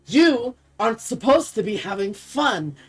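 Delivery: seething empress, held in. Acted. Empress snaps around to the fighter, seething. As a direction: scold with contained fury, leaning on the first word. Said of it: "you see the Empress seething".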